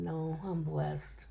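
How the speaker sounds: slow, soft and heartfelt; telling the doctor she is blessed, slow and soft; quiet sincere correction. Retold or imitated. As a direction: say it gently and slowly, with conviction.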